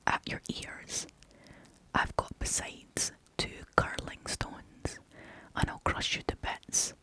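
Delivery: lightly voiced tough goat threatening; hoarse goat voice. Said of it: "an ugly, hoarse voice of his own".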